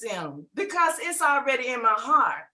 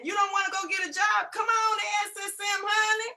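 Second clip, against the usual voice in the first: put-on higher, teasing scold to grown kids; sassy mom call-out; 5 semitones higher than usual. Mother teasing her grown kids about jobs, sassy higher voice. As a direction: call your kids out, playful.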